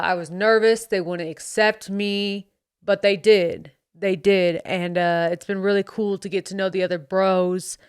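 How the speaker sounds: lightly voiced American bro accent. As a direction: slip back into the cocky bro character. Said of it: "getting back into character".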